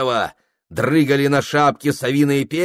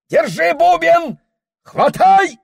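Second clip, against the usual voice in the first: very high, loud command; alarmed shout; 6 dB louder than usual. Acted. Someone in the tent shouts to catch the drum, very high and loud. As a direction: yell to grab the drum.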